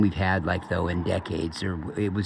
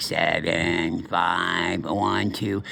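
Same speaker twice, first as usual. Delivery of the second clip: monotone voice; 4 semitones lower, much slower than usual. Retold or imitated. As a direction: lower droning monotone. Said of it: "he did it in this monotone voice".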